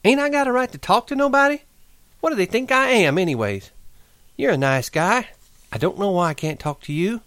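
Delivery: high indignant outcry; angry cry. Acted. Curly's wife cries out angrily to Lenny, high. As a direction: demand why nobody will talk to her. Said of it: "she cried".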